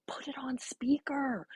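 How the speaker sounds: slow, urgent whisper; retold hushed prompt, drawn out; stage whisper. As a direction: whisper instructions to someone on the phone. Bryce coaching beside the phone.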